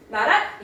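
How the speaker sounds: "나랏" with a quickly closed final syllable. Shown as a demonstration. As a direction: shut "랏" off fast. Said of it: "이렇게 읽어주는 거야". ("나랏"의 끝을 빠르게 닫기)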